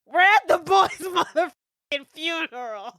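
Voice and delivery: stunned outrage. Real, not acted. Outraged at movie death.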